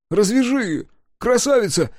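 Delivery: высокая, громкая мольба; взмолиться изо всех сил. A narrator's reading. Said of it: "взмолился Кудык". (Кудыка громко молит погорелицу развязать его)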